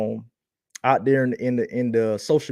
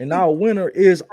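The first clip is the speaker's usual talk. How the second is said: game-show host build-up; booming prize announcer; 5 semitones higher, 5 dB louder than usual. Acted. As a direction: announce it big and high. Announcing the contest winner.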